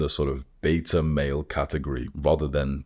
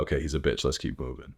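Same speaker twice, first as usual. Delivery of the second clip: 1 dismissive big dog; 3 semitones lower, 6 dB quieter, faster than usual. Retold or imitated. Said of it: "the big dogs will kind of nod and be like".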